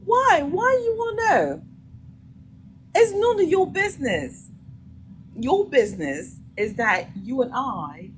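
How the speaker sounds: high, loud, indignant clapback; indignant comeback. Acted. Woman answering a man asking who she's with, indignant. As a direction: fire back high and loud, mock-indignant.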